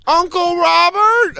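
put-on high, slow child voice; playing a toddler greeting his uncle; little kid voice. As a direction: say it like a small kid. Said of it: "Theo comes out and goes".

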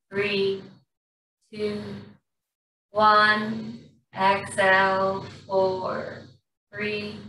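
slow, calm breath-work guidance with long pauses; guided breathing. Acted. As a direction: ease the class through each breath.

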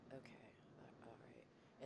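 resigned. Retold or imitated. Retelling giving in to the grand plan: soft resignation. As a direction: fade into grudging acceptance. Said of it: "And it's like".

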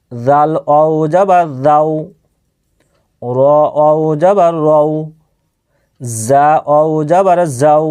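slow, even-toned recitation of letters; measured spelling drill. Shown as a demonstration. Teacher models Arabic letter spelling for learners, measured drill. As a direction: recite each syllable evenly, with pauses between.

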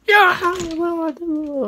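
badly faked wail; mock crying. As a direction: pretend to cry it out, half-joking. Mock crying after laughter.

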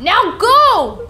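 lightly voiced stern father; a hint of a gruff dad ordering. Father telling kid to go, lightly gruff.

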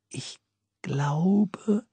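barely voiced, breathless wonder; awed whisper. A narrator's reading. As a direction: breathe it out in awe. Boy awed by the bell.

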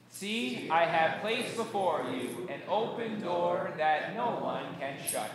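slow, measured Bible reading; scripture reading. Acted. Pastor reading Revelation to the congregation, slow and measured. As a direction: read the verse out deliberately. Reads Bible verse aloud.

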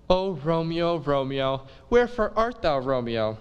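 hammed-up balcony longing; dramatic Juliet. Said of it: "And then she goes".

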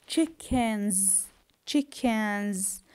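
"Chickens" ending in a voiced, held z; final S as Z. Shown as a demonstration. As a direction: say "Chickens" with a buzzing z at the end. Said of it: "the S here with Z".

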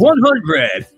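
loud mic check with echo; echo test. Shown as a demonstration. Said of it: "See, it's not working".

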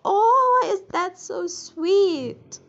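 very high, loud, slow squeal of delight; an overwhelmed, high-pitched aww at the sweet dad; gushing squeal. Real, not acted. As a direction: squeal it out like you can't take the cuteness.

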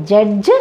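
judge in the Indian-English way; wrong judge. Shown as a demonstration. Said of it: "D is silent here".

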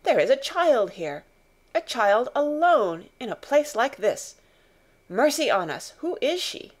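loud, shocked officer, rising at the end; can't believe a child is here; startled. Acted. Officer shocked to find the girl alone. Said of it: "he was so startled".

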